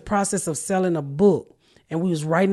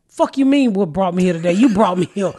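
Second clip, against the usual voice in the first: a touch louder, mock indignant comeback; retold angry clapback, a little louder; retold mad retort; 5 dB louder than usual. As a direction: snap back half-laughing at the white boy. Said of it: "that made me so mad with him".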